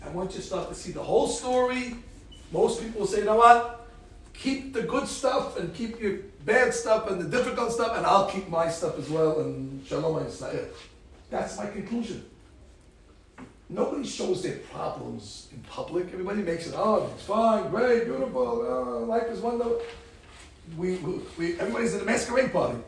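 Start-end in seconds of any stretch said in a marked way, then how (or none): 3.2-10.7 louder, firm and final; a congregation speaking up, loud and sure; emphatic declaration. Retold or imitated. People giving up envy. 16.8-19.8 higher, louder fake cheer; mock cheerfulness. Mocking public cheerfulness.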